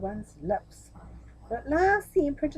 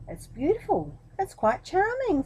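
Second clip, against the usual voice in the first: fake praise; 9 semitones higher, 4 dB louder than usual. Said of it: "said the minister aloud".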